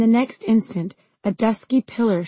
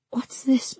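dark purr. Acted. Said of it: "his voice was a dark purr in my ear".

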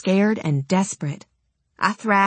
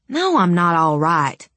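growling. Acted. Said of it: "I growled".

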